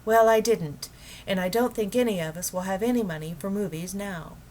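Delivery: mildly cross wife snapping about money; a little sharply. Acted. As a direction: cut him off a little sharply. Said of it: "a little sharply".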